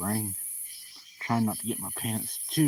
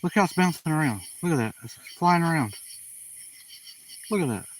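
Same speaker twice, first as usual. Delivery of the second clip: excited; 6 semitones higher than usual. Real, not acted. Excited at a bouncing light.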